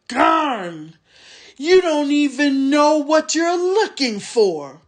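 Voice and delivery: a sulky, snarling goblin voice; grumbling orc tracker. A narrator's reading. Small orc tracker grumbling to the soldier. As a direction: whine like a tired orc who lost the scent.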